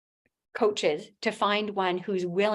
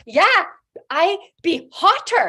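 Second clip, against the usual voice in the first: cheeky quip; 7 semitones higher, 7 dB louder than usual. Retold or imitated. Cheeky answer about the accent.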